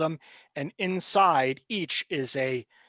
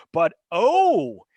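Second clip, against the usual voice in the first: gloating villain; 4 dB louder than usual. Acted. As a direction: savour the new victims. GM voices the villain figure.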